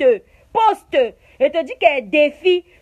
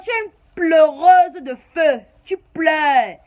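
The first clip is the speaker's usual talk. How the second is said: shouted insult; 5 dB louder, slower than usual. Real, not acted. Insulting rival during live rant.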